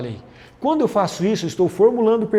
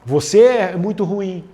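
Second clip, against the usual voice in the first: blaming accusation; 3 dB louder than usual. Shown as a demonstration. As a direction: throw the blame at them. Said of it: "eu não posso fazer forma de acusação".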